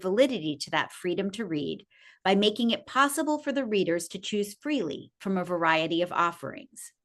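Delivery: measured reading of a public statement; deliberate, formal recitation; formal read-aloud. Acted. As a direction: read it out like a solemn declaration, each phrase falling away at its end.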